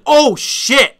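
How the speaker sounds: high, loud gasp of excitement; excited surprise. Retold or imitated. Thinking a twist was coming, high loud excited surprise. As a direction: react to a big twist. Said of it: "And I'm like".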